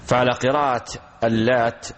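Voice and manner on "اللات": "اللات" with a geminated ت at the end; doubled final T. Shown as a demonstration. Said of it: "بالتشديد". ("اللات" بالتشديد على التاء)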